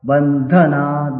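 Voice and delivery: "Bandhana" chanted slowly, lifting the dha. Shown as a demonstration. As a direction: intone "Bandhana" with dha going up. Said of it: "dha goes up".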